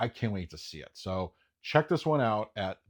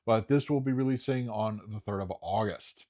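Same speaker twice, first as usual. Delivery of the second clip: ordinary talk, nothing marked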